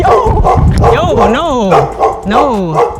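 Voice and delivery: sharp call across the park. Real, not acted. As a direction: yell to stop the dog. Calling dog back.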